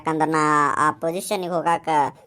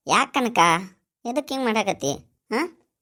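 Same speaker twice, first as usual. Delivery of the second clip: alarmed; 6 semitones higher than usual. Acted. Husband alarmed by wife's crying.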